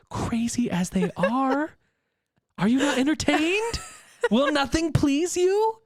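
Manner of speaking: high, pumped-up arena rant; hype rant. Acted. Host defending the book against haters in a high hype rant. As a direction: rile up the crowd like a gladiator host. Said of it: "a very quick hater proof".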